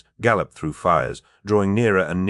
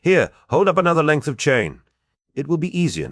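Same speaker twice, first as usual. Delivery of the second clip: de Verck; 11 semitones higher, 4 dB louder than usual. A narrator's reading. De Verck urges Hawkmoon, freeing chains.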